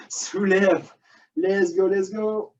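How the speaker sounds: effortful coaching mid-workout; strained voice while exercising; straining while exercising. Real, not acted. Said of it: "je suis proche de la crampe".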